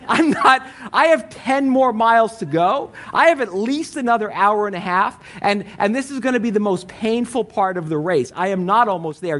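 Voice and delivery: a tired runner snapping back at cheering fans; exasperated protest. Retold or imitated. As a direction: push back hard at the crowd. Runner arguing back at crowd.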